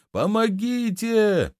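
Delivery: high, slow, drawn-out cry for help; shouting for help. A narrator's reading. Fat shopkeeper crying out from the pit, drawn-out and high. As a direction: wail it up from the bottom of a pit. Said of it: "кричал толстый лавочник".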